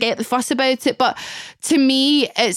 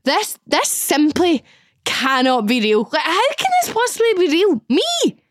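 high, stunned disbelief; can this really be happening; disbelieving inner voice; 4 semitones higher than usual. Retold or imitated.

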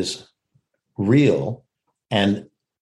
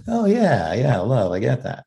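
pleased recognition of love. Shown as a demonstration. Actor imitating everyone's reaction to love, pleased recognition. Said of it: "as opposed to the love thing".

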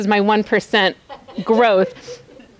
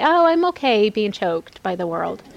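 laughing mock quote. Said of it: "Christian girls that would say".

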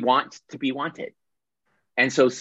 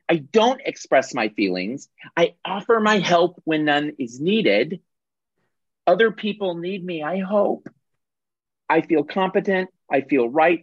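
higher, earnest helper voice proud of being needed; self-righteous rescuer; 6 semitones higher than usual. Acted. Rescuer listing what she does for others, earnestly proud. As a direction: sound sure you're the one in charge. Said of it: "The rescuer says".

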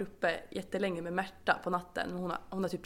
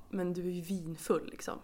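lightly voiced husband; 3 semitones lower, 4 dB quieter than usual. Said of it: "han bara".

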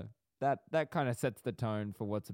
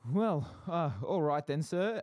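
lightly voiced clerk, pitched up; a hint of a chirpy counter-service voice, slightly raised; shop clerk; 4 semitones higher, 4 dB louder than usual. Clerk behind the counter addressing a customer, light role voice. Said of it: "the clerk".

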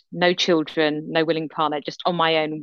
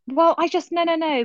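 high protest; 11 semitones higher than usual. Real, not acted. Protesting co-host's teasing.

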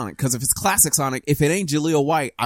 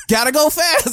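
high eager cartoon hero; hammed-up fast hero; radical hero voice; 13 semitones higher, 4 dB louder than usual. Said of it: "just sound radical".

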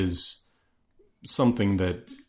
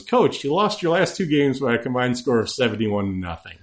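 mock reporter question; 3 semitones higher than usual. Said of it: "The question I wanted to ask was".

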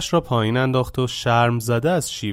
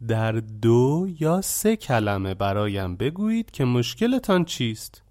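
calm and composed. Acted. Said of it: "خونسرد و آرام گفت".

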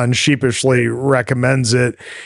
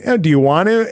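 higher, rising, eager ask; hopeful question; 8 semitones higher, 4 dB louder, much faster than usual. Retold or imitated. Boyfriend hopefully asking girlfriend, higher rising question. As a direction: lift it up hopefully. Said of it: "he's like".

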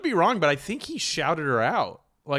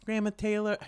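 put-on baby voice; 6 semitones higher, 4 dB quieter than usual. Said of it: "do a baby voice?".

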